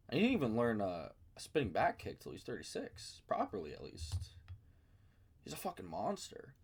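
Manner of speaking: a hint of a super calm podcaster spitballing with the boys; Joe Rogan. A fan imitating a calm commentator chatting in his chair. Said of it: "that was the tone that I did it in".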